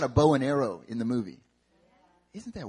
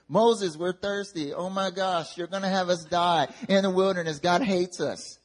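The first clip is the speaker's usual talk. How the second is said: higher-pitched mock whining; complaining; 5 semitones higher than usual. Thirsty Israelites blame Moses again, whining complaint. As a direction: play thirsty grumblers, pitched up. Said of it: "everyone starts complaining".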